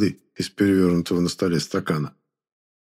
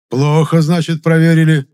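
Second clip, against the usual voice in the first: loud, higher irritated bark; loud annoyed retort; displeased bark; 8 semitones higher, 8 dB louder than usual. A narrator's reading. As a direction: snap at the doctor. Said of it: "недовольно рявкнул".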